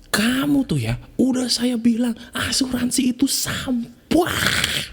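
high, slow, breathy sneer calling insurance trash; scornful father. Acted. Mocking father to the insurance salesman, a high slow scornful whisper. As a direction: hiss it out like a disgusted old man brushing off a pest.

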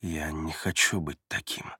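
low, soft, measured reply; subdued, deliberate admission; slow answer. A narrator's reading. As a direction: answer slowly, dropping the voice. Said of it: "и медленно отвечает".

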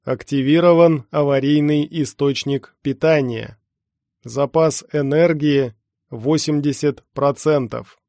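loud, measured system announcement; mechanical announcer voice. Acted. Hidden speaker reports on emergency power, mechanical voice. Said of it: "хриплый механический голос".

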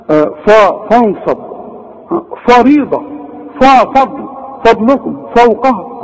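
thick, backed FA in "فريضة"; mispronounced heavy F. Shown as a demonstration. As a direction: overdo a heavy first syllable in "فانصب". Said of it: "كل دي غلط". (فاء مفخمة غلط في "فريضة")

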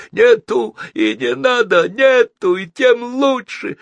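high, loud, deranged crowing; crazed villain. A narrator's reading. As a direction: crow it wildly, stretching the end. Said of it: "продолжал дико хохотать".

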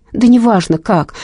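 shouting. Acted. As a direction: snap it out over the phone. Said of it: "закричала Инга". (раздражённый крик)

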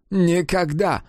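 understated resolute never. A narrator's reading. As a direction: slam the door on it. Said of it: "решительно сказал Генрих".

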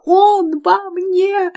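slow high wail; wailing slowly. A narrator's reading. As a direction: drag the wail out in terror. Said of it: "голосила она".

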